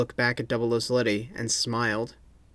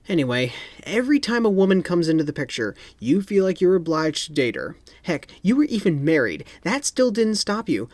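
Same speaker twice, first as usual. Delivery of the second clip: exasperated spy; 6 semitones higher, 3 dB louder than usual. A narrator's reading. Sletty scolds Bond.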